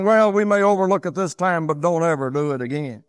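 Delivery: mock-sanctimonious scolding, starting high and loud. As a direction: hand down a pious pardon, pitch gradually sinking. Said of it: "standing there sort of sanctimonious saying".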